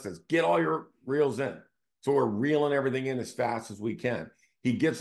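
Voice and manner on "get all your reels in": a raised, higher mock call down the boat; mild mock yell of an order; retold yell. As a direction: relay the order like a shout from the deck. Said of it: "The first mate yells to us".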